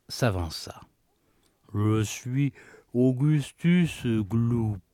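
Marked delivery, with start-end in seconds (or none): 1.7-4.8 put-on boy's voice. Greedy boy introduces himself.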